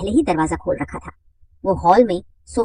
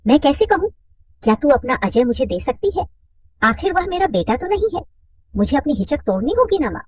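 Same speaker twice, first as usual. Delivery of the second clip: hesitant request; 7 semitones higher than usual. Acted. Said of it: "Radha झिझकते हुए बोली".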